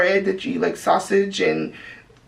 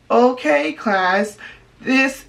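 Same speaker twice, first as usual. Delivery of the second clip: 1 classroom teacher voice; 3 semitones higher, much slower than usual. Shown as a demonstration. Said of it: "you have to be like".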